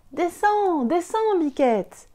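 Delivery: appel beaucoup plus haut qu'on lance au loin; appel crié. Acted. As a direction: crie vers le haut de l'arbre. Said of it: "met ses mains au cornet et crie". (Enzo qui appelle la chevrette en haut du sapin)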